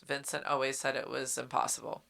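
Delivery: soft, subdued realization; dawning realization. Retold or imitated. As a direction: let the lie quietly sink in. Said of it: "sitting there with the realization".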